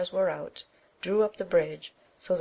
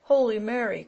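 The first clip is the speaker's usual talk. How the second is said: surprised; 5 semitones higher, 5 dB louder than usual. A narrator's reading. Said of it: "quoth Amadis".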